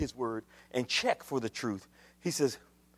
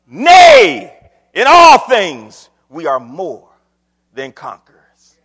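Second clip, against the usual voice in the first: booming, drawn-out pulpit shout; shouted proclamation; 17 dB louder, slower than usual. Acted. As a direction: burst out with the verse. Sudden shouted scripture proclamation.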